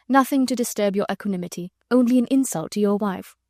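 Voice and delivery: forced gaiety. Acted. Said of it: "sounded somewhat forced".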